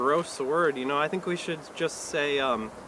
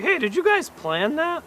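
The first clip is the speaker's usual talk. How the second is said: mock-sarcastic question; 4 semitones higher than usual. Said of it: "go up to a group of people ... and say".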